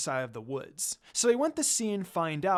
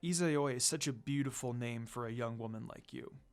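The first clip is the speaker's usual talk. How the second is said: smirking compliment; 6 semitones lower, 6 dB quieter than usual. A narrator's reading. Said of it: "Inu Taisho began to smirk at her".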